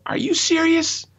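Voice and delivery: high, indignant demand; outraged at the driver who wouldn't stop; angry retort. Retold or imitated. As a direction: confront the shuttle driver, outraged. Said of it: "I go".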